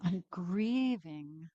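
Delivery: stretched slow, heart-heavy. Shown as a demonstration. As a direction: let grieving sink, unhurried. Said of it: "I'm sad".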